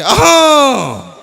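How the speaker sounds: long drawn-out loud high hawk; slow mock throat-clear. Uncle hawking in the stranger's Innova, long slow mock hawk. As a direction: drag out the hawk slowly.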